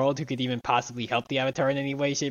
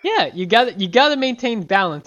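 megalomaniac rant; 8 semitones higher, 8 dB louder than usual. Pretend. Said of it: "so you give a villain speech".

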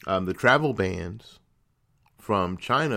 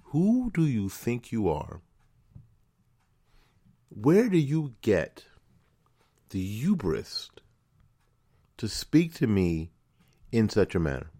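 indignant retort. Pretend. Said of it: "'Cause I want to tell her".

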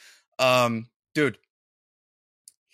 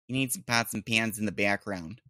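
lightly imitated North Dakota accent; 2 semitones lower, 3 dB quieter than usual. Host repeats woman's pots and pans line, light North Dakota accent. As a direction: mimic her North Dakota vowels slightly. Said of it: "so from North Dakota".

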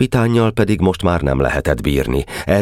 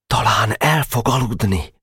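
higher, hushed half-whisper; 7 semitones higher than usual. Acted. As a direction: murmur it so he can sleep. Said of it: "súgta a kis szőke asszony". (súgva, halkan reménykedve)

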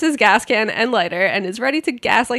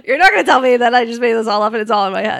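annoyed; 3 dB louder, faster than usual. Real, not acted. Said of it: "I'm getting annoyed".

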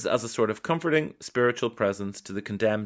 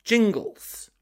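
whispered Jingles; 9 semitones higher than usual. Shown as a demonstration. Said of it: "Do you want me to say it like".

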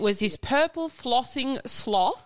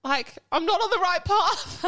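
higher, laughing complaint to friend; mock despair; 6 semitones higher than usual. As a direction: laugh through a fake lament. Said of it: "I'm like".

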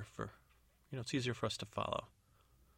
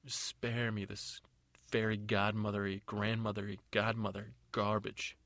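scornful dismissal. Acted. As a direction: drag out the words with mild contempt. Stepmother scorns the godmother's story.

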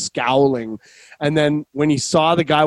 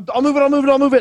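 high-pitched, hurried repeated plea; frantic promise; 12 semitones higher, 4 dB louder, much faster than usual. Retold or imitated. Driver reaching his car before the parking guy, frantic.

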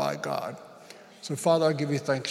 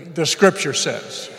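louder repeat; 6 dB louder, slower than usual. Shown as a demonstration. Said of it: "do it again, say it with me".

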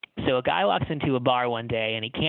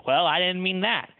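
angry retort; 6 semitones higher than usual. A narrator's reading. Pianist after smashing his glass, snapping back at the bartender. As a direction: snap it back at him. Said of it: "smashes his whiskey glass against the wall and says".

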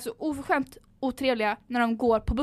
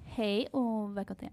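slow, tentative mock Stockholm accent; trying out a put-on Stockholm dialect; 2 semitones lower, 5 dB quieter than usual. Host testing a podcast welcome, mock Stockholm accent. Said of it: "låt mig testa sk-, stockholmska".

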